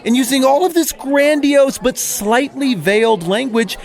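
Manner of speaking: righteous outrage, building as he justifies himself; indignant Pharisee rant. Acted. Jeff the Pharisee complains to his buddy Mike, indignant and preachy. Pharisee rants about Jesus.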